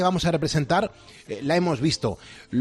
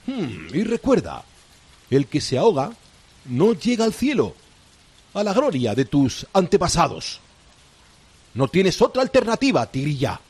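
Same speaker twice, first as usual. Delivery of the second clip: villainous pirate captain. Acted. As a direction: gloat like a sly pirate captain. Pirate captain threatens the princess.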